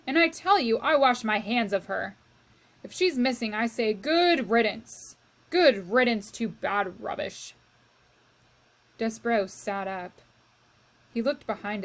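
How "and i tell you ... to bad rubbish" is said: shouting. Acted. Luis shouting good riddance about the missing princess, loud scorn. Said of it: "Luis was shouting".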